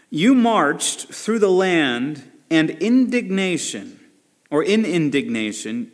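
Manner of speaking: solemn, measured reading of the psalm; scripture reading. Acted. Preacher reading Habakkuk aloud to congregation, solemn.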